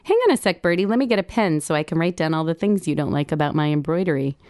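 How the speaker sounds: fast, mock-serious teasing. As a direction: rattle it off fast, playfully ribbing her. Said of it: "I tease her a little bit".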